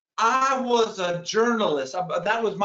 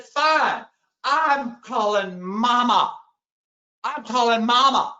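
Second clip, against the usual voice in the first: mock defiant threat; 2 semitones higher, 4 dB louder, slower than usual. Heated argument, threatening to call mom.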